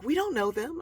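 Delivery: high, loud protest; high-pitched, retold protest; imitated alarmed objection. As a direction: act out a friend's disbelief. Retells friend's objection.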